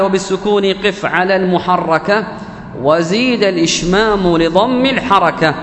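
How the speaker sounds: slow, measured recitation of the verse; recited verse. Shown as a demonstration. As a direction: chant the line of the poem slowly.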